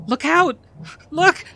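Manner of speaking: very high, loud cry of warning; warning scream. Acted. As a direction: scream to stop a child in danger. Warning child of incoming fire.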